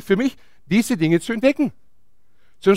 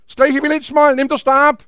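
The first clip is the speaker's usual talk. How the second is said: raised-pitch, matter-of-course instruction; God's emphatic answer; 6 semitones higher than usual. Acted. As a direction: answer as God, voice lifted. Acts God's answer to Moses. (mit erhobener Stimme angewiesen)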